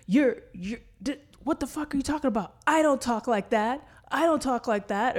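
high, fast, indignant mock commenter; mock outraged commenter. A mocking voice for angry online commenters. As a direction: squeal it like an offended stranger. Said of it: "and it's like".

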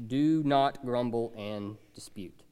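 slow unvoiced whisper; hushed, slow whispered repeat. Shown as a demonstration. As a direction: breathe the command out slowly.

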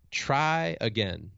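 "try again" stretched out slowly, each word drawn long; a stranger urging a stuck kid to climb on, slow mild call; slow encouraging call. Retold or imitated. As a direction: draw out "try again" slowly like calling up a wall. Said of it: "just shouted up to".

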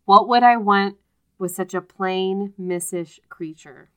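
emphatic start, drawn-out insult; scornful dismissal. Acted. Ralston to Nick about a plain woman, scornful dismissal. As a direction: dismiss her slowly, opening loud.

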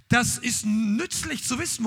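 ordinary talk, nothing marked

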